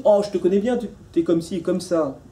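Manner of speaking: mock someone sure they have you figured out; knowing. Acting the other who labels him.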